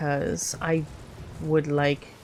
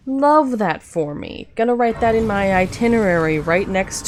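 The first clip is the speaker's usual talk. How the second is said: sarcastic; 3 semitones higher, 6 dB louder than usual. Real, not acted. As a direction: stretch "Love" with sarcastic glee. Same phrase said again louder.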